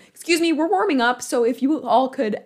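imitated announcement in own accent, high and loud; accent dropped. Actor addressing people in the house, retold loudly without the accent. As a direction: project it without putting on the accent. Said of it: "I'm not gonna do it".

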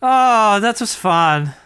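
put-on German accent; bad German accent. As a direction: say it as a comic German. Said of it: "this really bad German accent".

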